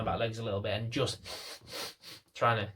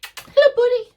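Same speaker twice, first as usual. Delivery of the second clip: very high, bright call to the dog; high-pitched happy call; 13 dB louder, slower than usual. Shown as a demonstration. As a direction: sing it up high and loud to get the dog's attention. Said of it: "Little bit of a high-pitched voice".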